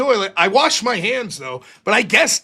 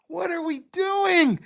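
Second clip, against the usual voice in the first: exasperated shout; 8 semitones higher than usual. Retold or imitated. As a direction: cry out in frustration. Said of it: "you're just like".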